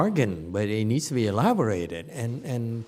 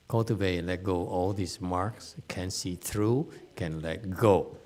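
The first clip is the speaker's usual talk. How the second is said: imitating Asian Dharma talk; 6 semitones lower, 5 dB quieter than usual. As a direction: intone it like an Asian Dharma teacher. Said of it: "how the Asians speak when they speak Dharma".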